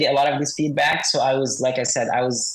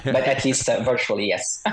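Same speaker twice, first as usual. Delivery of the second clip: electronically altered voice; disguised deep voice. Real, not acted. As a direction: voice disguised for anonymity. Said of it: "your voice has been altered".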